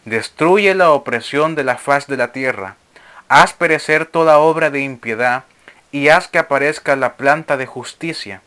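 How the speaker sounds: measured, declamatory reading of sacred text; formal reading to a congregation; scripture reading. Acted. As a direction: read it out as solemn scripture. Reads scripture aloud to listeners.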